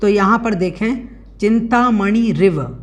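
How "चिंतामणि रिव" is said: चिंतामणि रिव said slowly, रिव joined to मणि; careful pronunciation. Shown as a demonstration. Teacher showing students how to say चिंतामणि रिव, slowly and carefully. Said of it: "इस प्रकार से इसको बोलना है".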